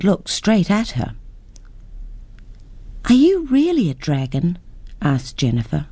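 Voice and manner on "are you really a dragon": put-on high, eager child's voice; wide-eyed girl asking, much higher; curious little girl. Girl meets a dragon.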